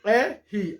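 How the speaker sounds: "R" said in two separate syllables, "EH... hee"; name "R" the Brazilian way, as "érri" with an h sound; "R" as a demonstrated "eh-hi"; Portuguese letter R. Shown as a demonstration. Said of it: "não é L não".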